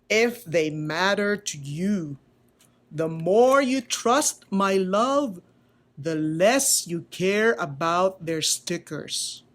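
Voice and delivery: slow, gentle explanation; lightly voiced wise old carver; slow tender teaching; patient maker.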